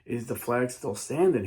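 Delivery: pleading call from below; prisoners yelling. Retold or imitated. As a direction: shout up to Francis anxiously. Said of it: "prisoners yelling".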